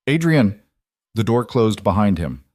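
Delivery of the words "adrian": calling out. A narrator's reading. Calling after him leaving.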